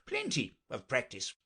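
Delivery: solemn repetition; a touch of grave insistence. Acted. Knight insists on his riding practice, gravely. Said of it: "the knight said very gravely".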